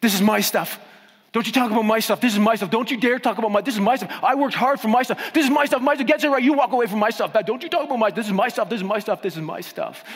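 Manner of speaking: high, loud, barking defensiveness; guard your stuff like a yapping dog; territorial possessive voice. Retold or imitated. Preacher mocking our possessiveness about money, high loud doglike yap. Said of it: "territorial attitude".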